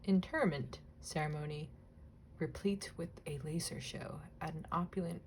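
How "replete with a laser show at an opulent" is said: unvoiced, much softer read; whisper. Real, not acted. Reading a difficult caption aloud to herself, whispered. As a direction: whisper the caption under the breath.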